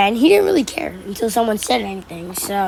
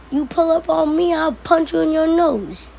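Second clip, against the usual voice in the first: retold threat; 6 semitones higher than usual.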